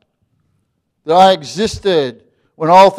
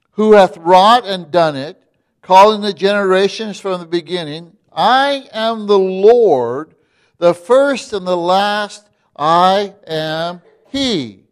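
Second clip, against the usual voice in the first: slow, raised solemn reading; scripture reading; slower than usual. Acted. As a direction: read the verse out as a preacher. Reads scripture aloud.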